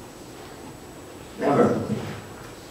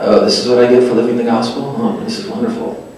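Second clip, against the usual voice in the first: sarcastic; faster than usual. Retold or imitated. Bitter thought after losing friend.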